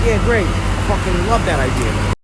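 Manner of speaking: loud, high, dripping sarcasm; sarcastic reply. Retold or imitated. Worker mocks his own reply to the boss, loud sarcastic enthusiasm. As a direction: fake enthusiasm, shouted. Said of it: "I'm like".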